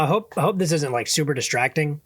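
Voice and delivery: talking while chewing popcorn; words round a mouthful of popcorn; munching popcorn. Real, not acted. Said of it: "I'm munching on popcorn right now".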